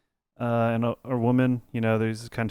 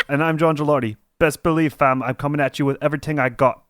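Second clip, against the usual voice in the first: put-on South London accent; 4 semitones higher than usual. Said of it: "God, I gotta get in the accent".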